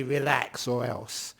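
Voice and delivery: stern command. Retold or imitated. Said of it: "grab it by the throat and say".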